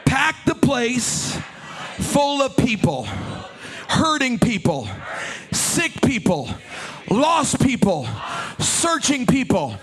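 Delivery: call out loud. Shown as a demonstration. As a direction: shout the prayer with the whole church. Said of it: "Say it again".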